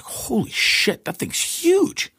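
high, slow, half-breathed gasp of disbelief; shocked exclamation. Retold or imitated. Stung hiker seeing the huge bug on the ground, high shocked gasp. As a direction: gape at the giant bug and blurt it out slowly.

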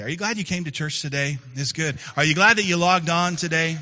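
from bright to loud, high and rousing; building excitement. Real, not acted. Pastor rallying the church and online viewers, rising to a loud joyful call. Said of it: "preaching builds to the congregation".

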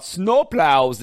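light Minnesotan long O on snowplows; Minnesota accent. Retold or imitated. Mocking people in Minnesota who claimed he had an accent, light Minnesota accent. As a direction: mimic how Minnesotans say snowplows. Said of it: "they're up there talking about".

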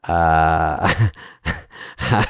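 low, quiet, hesitant with nervous laugh; Smigel. Acted. Writer declining a pitched sketch, low-key nervous mumble. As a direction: decline it softly, stumbling and chuckling. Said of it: "here's my Smigel".

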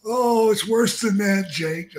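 high, mournful, creepy whine; Paul Bearer impression. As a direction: moan it like a gloomy undertaker. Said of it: "Paul Bearer comes in".

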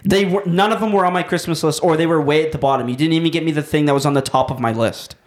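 put-on lightly petulant kid; spoiled brat. Son protesting about his Christmas list, mild bratty complaint. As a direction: protest like a let-down child. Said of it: "Shibes is a spoiled brat".

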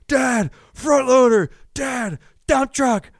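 put-on high, slow little-kid voice; excited toddler. Son points out trucks on the way out, high and thrilled. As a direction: call out each truck with delight.

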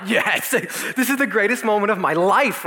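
slow, laughing delight; gleeful laughing. Retold or imitated. Teen delighting at his buddy's accident, laughing slowly. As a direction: relish the moment.

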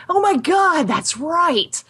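a retold moment of realizing; sudden realization. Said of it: "I was like".

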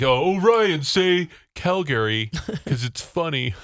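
imitating someone egging him on; teasing acquaintance. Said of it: "somebody is like".

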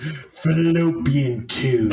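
slow, savoring each syllable; sensual drawl. Pretend. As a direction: purr the word slowly. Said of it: "It's such a sensual word".

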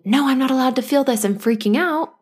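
a hint of a strict dictator, quick; playfully bossy inner voice; lightly voiced stern ruler; mock dictator. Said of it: "like dictatorship".

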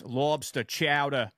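Boston accent on lobster chowder, R dropped. Shown as a demonstration. Friend joining the Boston accent joke, Boston accent. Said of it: "Love hearing 'em".

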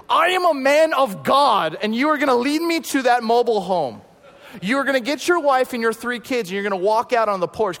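high, loud, forceful proclamation; commanding man of God. Retold or imitated. Tony commands hitchhiker to lead him home, high and loud. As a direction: command him like a bold preacher.

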